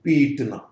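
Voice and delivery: पीटना with a long drawn ee; long vowel demo. Shown as a demonstration. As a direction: hold the ee in पीटना. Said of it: "long sound को represent करेंगे".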